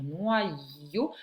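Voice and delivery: "noyau" stretched into two syllables. Shown as a demonstration. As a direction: hold both halves of "noyau". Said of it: "ye sur la dernière deuxième syllabe".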